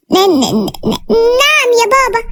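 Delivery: stuttered start, then a high, drawn-out reply; fearful stammer. A narrator's reading. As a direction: answer father in fear, stumbling on the first sound. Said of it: "وقلت له بخوف".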